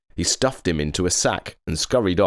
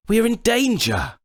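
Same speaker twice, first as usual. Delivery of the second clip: high voiced unicorn, a bit louder; nervous unicorn; 3 dB louder than usual. A narrator's reading. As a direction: squeak out the warning like a jittery unicorn. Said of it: "he said".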